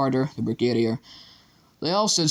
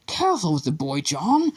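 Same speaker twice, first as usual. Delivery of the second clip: raised, rising call across the room; teacher calling out to a colleague, higher on the name; 4 semitones higher than usual. A narrator's reading. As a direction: call it out over the scuffle. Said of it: "called Doctor Dart".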